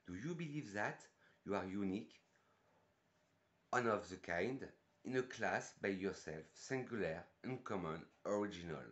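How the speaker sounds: English recited in a French accent. Real, not acted. Reviewer showing off English on the perfume blurb, French-accented English. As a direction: read each phrase separately, in French-accented English. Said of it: "mon superbe accent anglais depuis le début".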